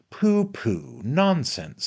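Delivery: high, airy pooh-poohing; dismissive. Acted. Friend scoffs at old man's excuse, dismissive. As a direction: brush the excuse aside, pitched high.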